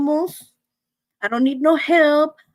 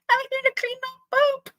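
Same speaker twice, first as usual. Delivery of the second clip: eager begging; 12 semitones higher than usual. Retold or imitated. Eager neighbor begging to help.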